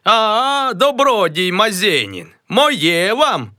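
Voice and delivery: high, breezy second greeting voice; a new high voice greeting Mazenin. Acted. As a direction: play a different acquaintance. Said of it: "Привітався на другий голос".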